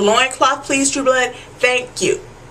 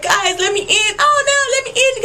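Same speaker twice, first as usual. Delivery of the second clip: high, whiny begging voice; hammed-up desperate whine; mock Steve Newland plea; 11 semitones higher than usual. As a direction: plead to be let in, much higher. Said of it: "he like".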